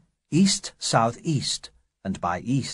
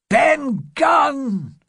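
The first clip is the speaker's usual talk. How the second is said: much higher, louder exclamation of realisation; loud higher shout of discovery; sudden shout; 5 dB louder than usual. Acted. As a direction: burst out with the name. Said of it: "shouted Silver".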